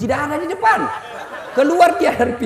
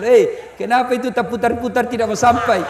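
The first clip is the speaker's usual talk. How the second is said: exasperated friend calling out, only mildly raised; mock yell. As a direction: imitate a heckle from the congregation. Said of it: "temanku yang satu berteriak langsung". (pura-pura berteriak protes)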